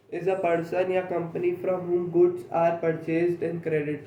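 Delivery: slow, word-by-word dictation; teacher reading a definition aloud for notes, very slowly. Shown as a demonstration. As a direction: dictate each word slowly so students can write. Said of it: "dictating the definition".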